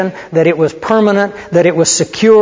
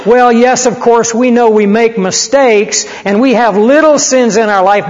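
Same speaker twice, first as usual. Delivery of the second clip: mock excuse; 4 semitones higher than usual. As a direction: play the pastors' grudging admission with mockery. Pastors' final excuse mocked.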